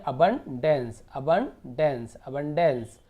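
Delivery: "अबंडेंस" split into अबन and डेंस, then joined; broken-down pronunciation. Shown as a demonstration. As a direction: drill "अबंडेंस" chunk by chunk. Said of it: "तो क्या हो गया?".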